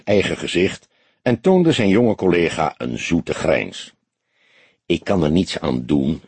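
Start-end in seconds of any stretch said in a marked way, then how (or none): 4.8-6.2 light sarcasm. A narrator's reading. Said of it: "sprak hij met een licht sarcasme".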